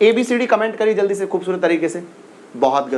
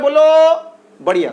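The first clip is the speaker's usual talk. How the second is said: excited cheer; 8 semitones higher, 6 dB louder, much slower than usual. Real, not acted. Teacher cheering class on.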